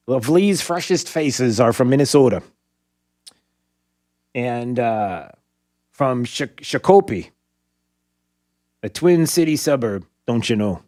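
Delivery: a light put-on Minnesota accent. Host reading Minnesota news to co-host: mild Minnesota accent. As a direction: lay on a hint of Minnesota, don't you know. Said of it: "Why do you keep talking like that?".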